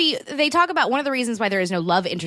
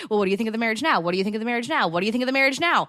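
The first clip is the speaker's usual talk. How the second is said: mimicking Merida; much faster than usual. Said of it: "all Merida cares about is".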